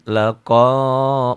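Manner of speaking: "laqa" with its last vowel held; slow chanted "laqa"; natural long vowel. Shown as a demonstration. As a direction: draw out the end of "laqa". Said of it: "mad tabi'i".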